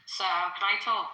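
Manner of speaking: slow hushed whisper. Real, not acted. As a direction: ask it in a breathy whisper.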